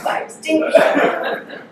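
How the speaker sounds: slow, hushed, giggling; teacher repeating the line, whispered through laughter. Pretend. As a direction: breathe it out with a laugh. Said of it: "Can you imagine?".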